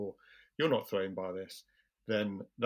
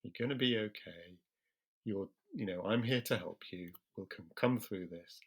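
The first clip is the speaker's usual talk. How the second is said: steady, soothing, unhurried talk-down; calm and slow; 4 dB quieter than usual. Shown as a demonstration. Calming someone having a panic attack, soft and unhurried. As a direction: talk them down gently and slowly. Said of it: "I'll deliberately slow my speech".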